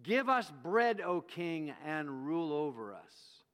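a mild mock crowd clamor, loud at the start. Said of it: "And so they clamored".

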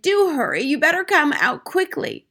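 high, urgent grandmother's call; urgent shout. A narrator's reading. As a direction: call out to hurry a child along. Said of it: "it shouted".

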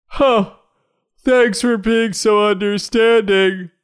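very high, slow squeaky voice dripping sarcasm. Acted. Girlfriend answers sarcastically.

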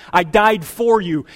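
loud, slow punches on key words; emphatic God's voice. Acted. God assuring a guilty churchgoer, in an emphatic preacher's voice. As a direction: preach it forcefully as God's answer.

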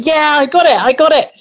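put-on very high-pitched little boy's voice; imitating excited boy. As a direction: squeak it like a triumphant pupil. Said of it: "the boy's going".

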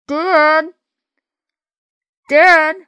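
muffled shout from inside a can; muffled cry. Acted. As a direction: call out, muffled and trapped. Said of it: "came a muffled cry".

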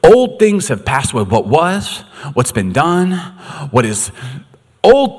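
the same verse, now boomed out; proclaimed. Shown as a demonstration. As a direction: declare it to the room. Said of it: "God, I love that".

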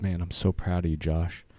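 emotional, close to tears; fighting back tears on each word; choked up. Real, not acted. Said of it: "I'm choking up a little bit now".

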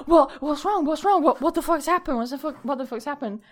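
mock alarm. Boyfriend bursts in asking what happened, mock alarm. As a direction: imitate someone rushing in confused and alarmed.

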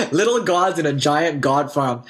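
quoting it through laughter; laughing quote. Retold or imitated. Recalling a funny quote to friends, laughing. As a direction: chuckle the line out. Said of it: "reminded me of the quote".

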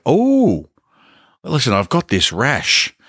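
high-pitched "Oh" then a casual ask; cheeky impression of someone asking for free advice; mocking nosy stranger. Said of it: "they're like".

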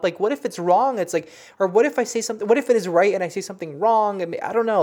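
fretting over getting it wrong; worried. Retold or imitated. Retelling her fear of messing up the reading, worried. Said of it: "I'm really freaking scared to talk about it".

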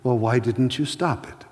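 a gentle, quiet question from above; quiet inner voice. Retold or imitated. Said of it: "a voice spoke to him and says".

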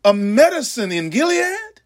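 anguished prophet's cry. Acted. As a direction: cry out to heaven like a grieving prophet. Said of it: "And I say".

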